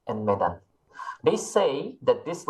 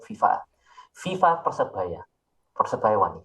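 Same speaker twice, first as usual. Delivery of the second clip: Surabaya Javanese. Shown as a demonstration. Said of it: "I'll speak, like, my Javanese".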